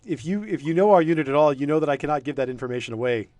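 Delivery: a lightly voiced proud soldier; defensive guard. GM voices guard refusing, loud.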